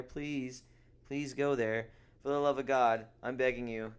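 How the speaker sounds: over-the-top promoter plea; mock begging. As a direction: beg the crowd to come, hammed-up. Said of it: "I'm trying my best to promote it".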